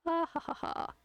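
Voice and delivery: high, spaced-out ha-ha-ha; put-on laugh. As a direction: laugh it out in separate syllables. Mock laugh while drawing.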